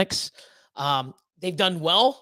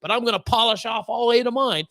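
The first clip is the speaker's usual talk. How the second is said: raised, cocky mock brag; cocky buddy; 5 semitones higher than usual. Buddy boasting he'll eat all eight slices, mock cocky. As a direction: show off like a glutton who is sure of himself. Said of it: "And then he'll be like".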